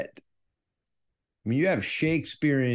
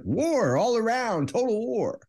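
mock French accent; 12 semitones higher than usual. Host mocking Clemenceau's war talk, in a high mock French accent. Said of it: "I mean, he's like".

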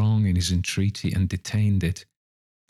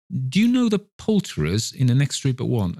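eager questioning; 6 semitones higher than usual. Acted. Scrooge eagerly questions boy.

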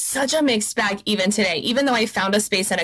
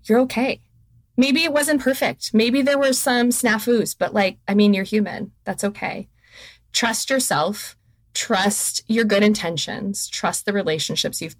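wise maternal voice. Retold or imitated. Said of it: "wise maternal voice that says".

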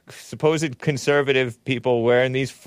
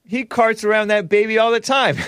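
mocking voice; 8 semitones higher than usual. Real, not acted. Mocking the father in the clip.

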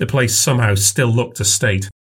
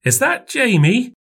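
put-on older woman voice; 13 semitones higher than usual. A narrator's reading. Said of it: "said Mum".

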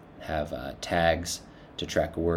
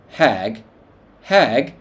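indignant double shout, much higher and louder; outraged; 6 semitones higher, 8 dB louder than usual. A narrator's reading. Orc repeating the insult hag, outraged shout. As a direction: spit the insult back, rising in outrage.

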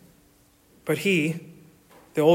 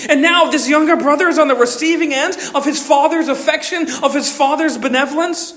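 rising sermon; 7 semitones higher, 4 dB louder than usual. Acted. Preaching builds.

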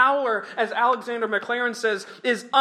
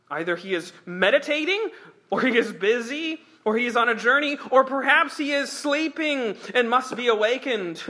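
mild mocking; 3 semitones higher than usual. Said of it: "Elijah mocked them".

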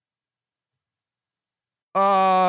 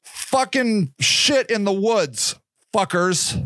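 pissed-off rant; 6 semitones higher, slower than usual. Retold or imitated. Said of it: "I'm like".

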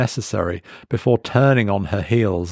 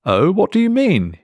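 higher, tentative probing; hesitant question; 10 semitones higher, 3 dB louder than usual. Acted. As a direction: venture the question carefully. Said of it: "he hazarded".

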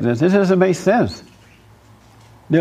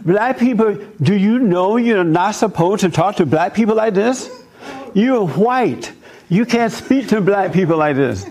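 raised pitch, challenging the teenager, half-acted outrage; indignant retort; 5 semitones higher than usual. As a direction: throw the accusation back at her, mock-offended. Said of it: "I'm like".

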